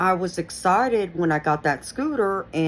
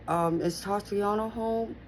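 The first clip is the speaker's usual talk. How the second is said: put-on scared little girl; 5 semitones higher, 4 dB quieter, slower than usual. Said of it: "and I'm scared".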